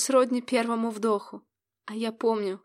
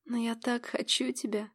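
soft whisper, barely voiced; whispered in ear; 8 dB quieter than usual. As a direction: breathe it into his ear. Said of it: "прошептала ему на ухо".

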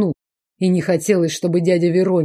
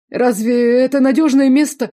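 high, louder sour whine; grimacing complaint; 7 semitones higher, 4 dB louder than usual. A narrator's reading. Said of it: "скривился Иоланд". (высокий кислый ноющий голос)

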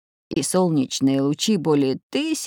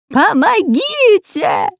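much higher, louder and slow desperate cry; frantic scream; 14 semitones higher, 7 dB louder, much slower than usual. A narrator's reading. Spy trapped by a plant, screaming much higher for help. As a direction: scream for help at the top of your voice. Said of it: "истошным голосом заорал".

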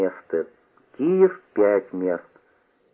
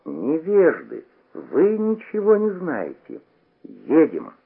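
shouted; 6 semitones higher, slower than usual. A narrator's reading. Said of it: "Моня крикнул".

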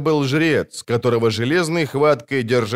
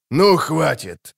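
angry shout; 3 semitones higher, slower than usual. A narrator's reading. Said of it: "зло крикнул Золтан".

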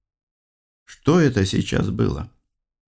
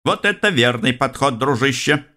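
pleased; 6 semitones higher than usual. Acted. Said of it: "обрадовался электронный секретарь".

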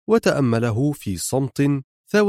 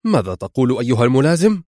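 quick, louder shocked question; astonished exclamation; 4 dB louder, faster than usual. Acted. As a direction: blurt it out in disbelief. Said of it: "صاح خيري وقد اتسعت عيناه دهشة". (صيحة دهشة سريعة)

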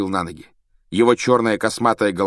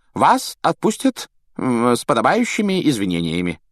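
high, fussy, placating official; smooth it over nervously; Fudge evasive; 5 semitones higher, 5 dB louder than usual. A narrator's reading. Fudge soothing Hagrid, high nervous reassurance.

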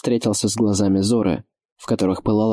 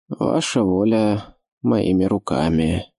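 put-on solemn old servant; slower than usual. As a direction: say it slowly like a sworn vow. Old keeper answers solemnly.

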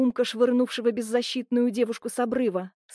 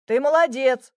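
encouraging; 4 dB louder than usual. A narrator's reading. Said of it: "подбадривающий голос Михаила".

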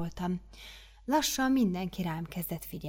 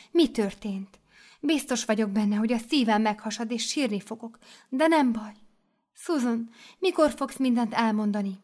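slightly higher gushing voice; coaxing mother superior; 4 semitones higher, 3 dB louder than usual. Acted. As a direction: press gently for her story.

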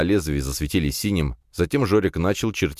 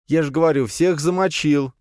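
cocky insistence; 11 semitones higher than usual. A narrator's reading. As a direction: drag out the bragging lie. Lyokha repeats his bluff.

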